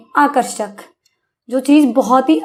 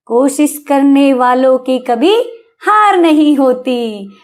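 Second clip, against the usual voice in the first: poem line; slower than usual. Retold or imitated. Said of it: "ये वाली poem बहुत बार सुनी है".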